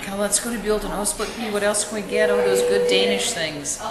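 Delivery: lightly voiced children begging dad to pull over; a hint of excited kids. Kids begging for Buellton food.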